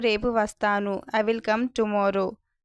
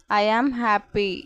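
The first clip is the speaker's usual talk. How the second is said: "I am happy" drawn out slowly, word by word; slow, careful repeat; 3 dB louder, much slower than usual. Shown as a demonstration. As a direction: say it slowly for learners. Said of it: "teacher repeats the phrase slower". (నెమ్మదిగా, స్పష్టంగా)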